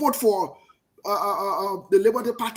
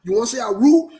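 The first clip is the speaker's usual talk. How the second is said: loud challenge; 6 dB louder than usual. Real, not acted. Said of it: "I talk the way I talk it".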